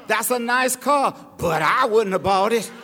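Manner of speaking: a hint of a backhanded busybody; mocking gossip. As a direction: imitate a grudging neighbour. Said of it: "Start telling you".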